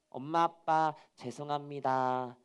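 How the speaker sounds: slow, measured acted apology; apologetic. Child apologizes to mom and dad, contrite. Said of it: "사과하게 해주시고".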